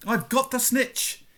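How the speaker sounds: high, drawn-out triumphant cry; geschreeuwde triomf. A narrator's reading. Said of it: "he shouted".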